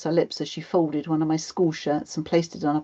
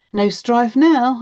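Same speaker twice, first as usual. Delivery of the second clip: slow, loud, higher comeback; pointed retort; 7 semitones higher, 9 dB louder, slower than usual. A narrator's reading. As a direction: stretch it out pointedly. Child retorts to mum.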